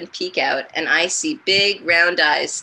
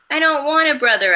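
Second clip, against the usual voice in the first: put-on louder, higher and fast, a child yelling; angry shout; 9 semitones higher, 7 dB louder, faster than usual. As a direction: shout it out like a hurt little sister. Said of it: "I shout".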